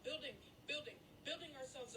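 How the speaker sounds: voice cracking. Real, not acted. Emotional rant, voice cracking.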